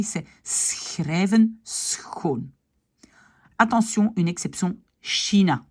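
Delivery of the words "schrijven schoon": schrijven schoon with a scraped throaty sch; drawn-out demo of the ch in schrijven schoon; Dutch throaty ch. Shown as a demonstration. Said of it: "vous avez compris".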